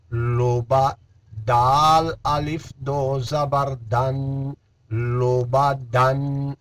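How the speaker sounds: slow, measured Qaida spelling chant; syllable recitation. Shown as a demonstration. Teacher drilling Qaida syllables for students, measured chant. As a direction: spell each letter out for the pupils.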